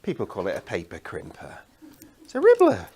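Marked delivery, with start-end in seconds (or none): 2.2-2.9 high sinister villain. Pretend. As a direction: say it like a cartoon baddie. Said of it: "You sound like a, a villain".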